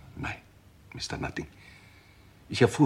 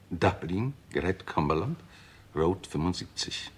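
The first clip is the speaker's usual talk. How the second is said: reading out the will; 3 semitones higher, 3 dB louder than usual. Acted. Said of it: "es, äh, lautet".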